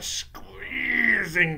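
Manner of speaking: slow unvoiced whisper. A narrator's reading. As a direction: breathe it with dread. Horrible transformation.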